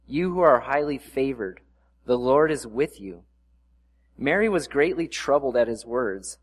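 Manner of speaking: measured Bible reading, lifting for the angel's words; scripture reading. Acted. Pastor reading Luke to the congregation, clear and measured. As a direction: read the passage to the church. Reads Luke chapter one aloud.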